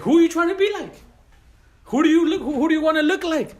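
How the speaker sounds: high-pitched, insistent challenge in English; challenging question. Acted. Challenges youths on whom they imitate. (pregunta retadora, con voz muy aguda)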